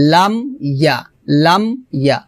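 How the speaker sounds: "লাম ইয়া" with m shut and a break before ya; closed m, separated. Shown as a demonstration. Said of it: "not লামিয়া".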